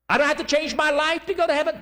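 high, disbelieving question; incredulous doubter. Retold or imitated. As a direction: ask as if it can't be that easy.

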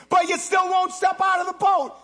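loud sung-out preaching cry; preaching at full force. Acted. Preacher urging the church to step out, sung shout. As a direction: lift the line into a chanted peak.

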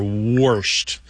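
"warshed" with aw plus R, like worshed; dialect pronunciation. Shown as a demonstration. Host giving another dialect form, "warshed" said as worshed. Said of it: "And you do hear".

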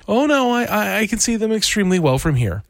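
a frightened dentist babbling his excuse; panicked dentist. A narrator's reading. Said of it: "weeping in despair, he cried".

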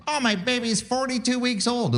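high, prissy mocking voice; mock proud parent. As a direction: send up a smug parent. Mocking parents who count in weeks.

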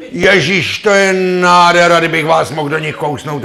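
leering man. Acted. Man ogling a woman on the street, high leering gush. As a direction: gush over her like a hungry tomcat.

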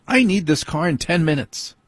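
wife coming out to reclaim the car, a touch mocking; wife's demand. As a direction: lightly mimic the wife's nagging. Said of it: "That's usually what I have to hear".

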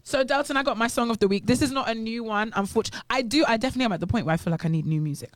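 animated, a touch too loud; speaking loud. Real, not acted. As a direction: get carried away and talk up. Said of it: "I'm speaking really loud".

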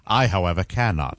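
low, understated movie-villain quote; lightly imitated film villain. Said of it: "he goes".

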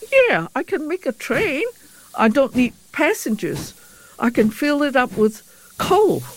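sudden inspiration. Retold or imitated. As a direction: act out your own eureka moment, lightly. Retells her sudden train idea.

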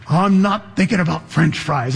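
a half-shouted denial of hunger; mock shout. Snowed-in Jim insisting he is not thinking of food, mock shouting.

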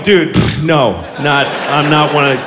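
a hint of a panicked pony; low mock pony voice. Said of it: "it's totally going".

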